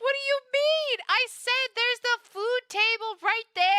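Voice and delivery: incredulous, pointing out the obvious; exasperated. Real, not acted. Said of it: "Oh, okay".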